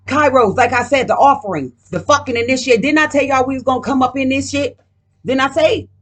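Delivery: real rising excitement; fired up and emphatic; worked up, proving the point; getting lit. Real, not acted. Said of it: "Yo, I'm getting lit".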